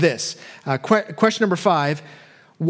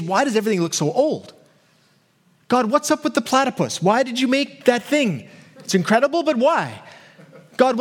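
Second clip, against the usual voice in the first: higher, eager puzzled questions to God; curious questions; 5 semitones higher than usual. Retold or imitated. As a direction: ask God like a wide-eyed curious kid. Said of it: "Uh, curious questions".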